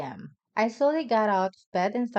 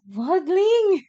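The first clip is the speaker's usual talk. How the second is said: laughing; 8 semitones higher, 9 dB louder, slower than usual. Real, not acted. Laughs while telling the scary part.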